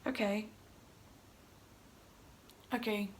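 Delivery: subdued, blank murmur; numb. Retold or imitated. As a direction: say it quietly, drained of reaction. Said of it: "I just felt numb".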